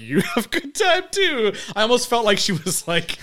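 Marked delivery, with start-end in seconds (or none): 0.0-1.5 high-pitched mock sweet farewell; put-on politeness, a laugh slipping in; imitated polite reply. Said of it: "when she responds".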